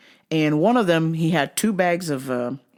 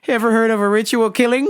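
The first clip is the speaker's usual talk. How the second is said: a touch of mock menace; Uncle Buck line; 5 semitones higher, 4 dB louder, faster than usual. Worker imagining quoting Uncle Buck to customer, mock menace. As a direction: threaten the customer in jest. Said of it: "doing the old Uncle Buck".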